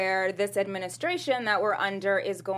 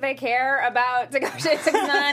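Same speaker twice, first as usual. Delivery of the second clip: incredulous; 5 semitones higher, 6 dB louder than usual. Real, not acted. Incredulous rhetorical question.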